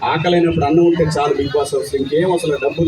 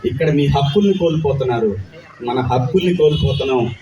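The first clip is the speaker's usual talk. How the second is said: lightly lowered, firm rousing film-speech voice; film dialogue delivery; 3 semitones lower than usual. Pretend. Actor asked by a fan for a film dialogue, mild rousing declamation. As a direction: declaim it like a hero's political monologue. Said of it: "nineties biopic one dialogue".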